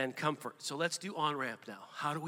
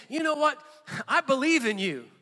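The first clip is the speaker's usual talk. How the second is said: higher, bright-hearted cheering on of a friend; encouraging words; 8 semitones higher, 5 dB louder than usual. Retold or imitated. Pastor modelling how to encourage a struggling friend, cheering voice. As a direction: speak belief into someone. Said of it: "It's actually just saying".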